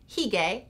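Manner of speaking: "Hygge" said as HEE-gay; pronounced hee-gay. Shown as a demonstration. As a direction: say "Hygge" with a first syllable like "he", ending in "gay". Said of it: "I've heard it pronounced".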